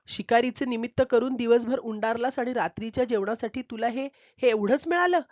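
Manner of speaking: mildly snapping, scolding wife; a touch of an irritated scold at the husband; wife mildly scolding the hunter for bringing home only a cat. Acted. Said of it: "ती खेकसून म्हणाली".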